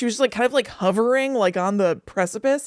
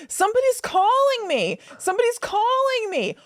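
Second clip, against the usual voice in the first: put-on loopy tired toddler; 11 semitones higher than usual. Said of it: "she was all loopy and tired".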